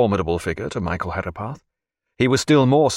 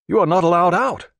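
stern porter; 9 semitones higher, 4 dB louder than usual. Acted. Porter blocks the door.

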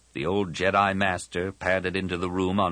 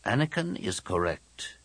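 put-on grave old master; 2 semitones higher, 4 dB quieter than usual. Old master endorses the plan.

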